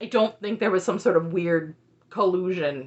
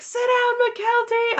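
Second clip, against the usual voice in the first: much higher, louder heckle; shouted heckle; 5 dB louder, slower than usual. Retold or imitated. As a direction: yell at her from the crowd. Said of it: "And someone's like".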